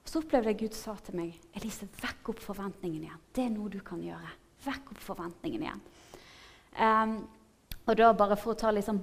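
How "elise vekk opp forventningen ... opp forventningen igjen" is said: soft, hushed retelling of God's words; softly voiced instruction; gentle divine prompting. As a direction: quote it quietly, as a gentle nudge. Retells God speaking gently to her.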